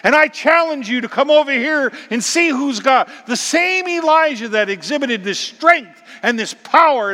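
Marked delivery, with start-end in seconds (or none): 0.0-3.1 loud, higher defiant rebuke; prophet's bold challenge to Ahab. Acted. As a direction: confront the king head on. Elijah confronting Ahab.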